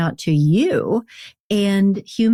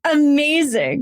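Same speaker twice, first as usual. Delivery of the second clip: gasp; 9 semitones higher than usual. Real, not acted. Host reacts with a gasp.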